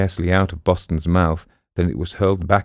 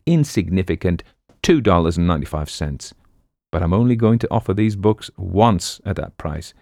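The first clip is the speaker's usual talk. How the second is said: book-selling pitchman; 2 semitones higher than usual. Acted. Book hawker revealing his price to the crowd, animated patter. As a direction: build suspense, then drop to the bargain.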